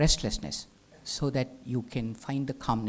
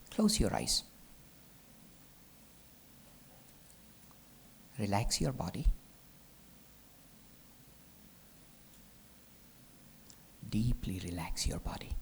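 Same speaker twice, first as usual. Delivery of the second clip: soft, lower meditation voice with long pauses; guided relaxation; 5 semitones lower, 5 dB quieter than usual. Acted. Teacher settling the class to relax the body, guided relaxation. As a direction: ease them gently into stillness.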